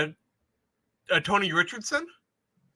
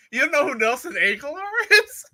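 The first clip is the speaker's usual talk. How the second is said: insistent; 8 semitones higher than usual. Retold or imitated. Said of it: "she was insistent".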